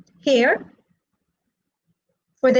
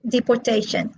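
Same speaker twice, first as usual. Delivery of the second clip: "deportation" said depor-TA-tion; stress on third syllable; faster than usual. Shown as a demonstration. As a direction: hit the TA in "deportation". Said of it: "they are stressed on the third syllable".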